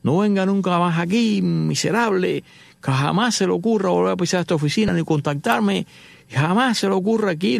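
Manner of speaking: acted-out indignant dismissal; angry tirade. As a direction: throw them out with a scolding, indignant rant. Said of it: "Lincoln detrás diciéndole horrores".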